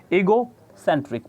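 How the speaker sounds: ईगोसेंट्रिक with the middle syllable CEN pushed; ईगोसेंट्रिक, stressed on the capitalised CEN. Shown as a demonstration. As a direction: lean on सें in ईगोसेंट्रिक. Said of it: "उस पे आपको ज़्यादा जोर देना है".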